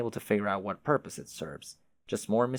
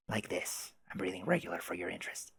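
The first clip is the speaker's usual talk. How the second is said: calm breathing demo; 2 semitones lower, 9 dB quieter than usual. Shown as a demonstration. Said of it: "Breathe, Crocker. Slow breaths".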